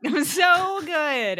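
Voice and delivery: high, loud and slow through laughter; laughing praise. Real, not acted. Co-host praising a bad accent attempt, laughing. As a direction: gush it while cracking up.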